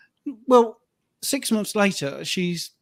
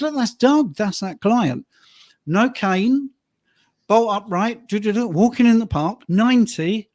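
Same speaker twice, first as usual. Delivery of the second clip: excited retelling; 4 semitones higher, 5 dB louder than usual. Retold or imitated. Telling wife about old client.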